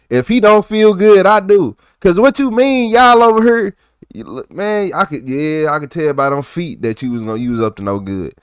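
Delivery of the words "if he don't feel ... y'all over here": laughing loud and high. Real, not acted. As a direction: crack up while saying it. Streamer laughs at clip.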